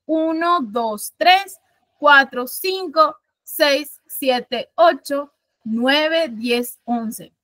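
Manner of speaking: each syllable counted out one by one, slow; counting syllables slowly. Shown as a demonstration. Teacher counts the verse's syllables for the class, slowly. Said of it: "yo si cuento".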